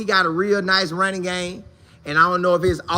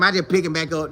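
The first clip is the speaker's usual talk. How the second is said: ordinary talk, nothing marked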